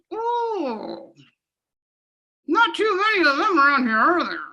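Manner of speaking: high squeezed-lips frog, quick and sheepish; puckered nervous frog. Shown as a demonstration. Teacher showing kids the frog's tiny-mouth line. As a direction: shrink your mouth tiny and squeak it out. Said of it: "then you can go".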